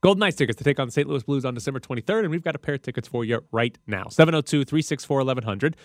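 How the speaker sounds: fast, punchy radio giveaway read; radio contest promo. Real, not acted. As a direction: hype the call-in contest. Announces ticket giveaway.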